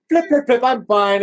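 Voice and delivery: high, chirpy mock bird. Hoping the bird would recover, imitated bird. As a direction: play a little bird shaking it off. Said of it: "hoping the bird would just go".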